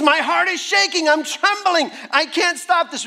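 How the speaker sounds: mildly panicked, high-pitched confession; distressed David. Acted. Preacher voicing David's shaking heart, mildly distressed. David voiced as trembling in fear.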